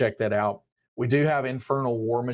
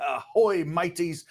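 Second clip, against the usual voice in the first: hearty high pirate greeting; 6 semitones higher than usual. Pretend. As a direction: call out like a swaggering pirate. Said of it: "I'm going to do the entire thing like a pirate".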